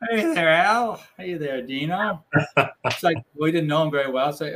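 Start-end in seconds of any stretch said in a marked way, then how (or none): 0.1-2.2 lightly voiced tough-guy greeting; a hint of an old gangster drawl, slow on Dino; Edward G. Robinson voice. Greeting the reporters at the bar in a mild gangster voice. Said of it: "a voice that was a combination of E T Robinson and Mister Haney".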